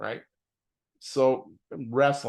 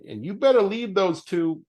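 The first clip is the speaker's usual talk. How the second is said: stern self-warning; 8 semitones higher, 6 dB louder than usual. Retold or imitated. Lecturing himself, quoted inner talk.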